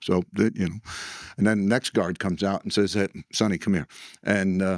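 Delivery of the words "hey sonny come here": ordinary talk, nothing marked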